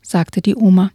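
lively read-aloud storytelling; story narration. A narrator's reading. Reads a children's book aloud.

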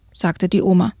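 lively read-aloud storytelling; story narration. A narrator's reading. Reads a children's book aloud.

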